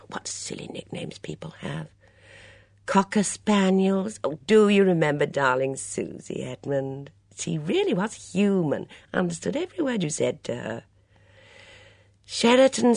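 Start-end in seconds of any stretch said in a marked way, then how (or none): 0.1-10.8 put-on high, lively voice of a fussy older lady; a bright, gossipy mother at breakfast; chatty Mrs Swettenham. Swettenham reading ads.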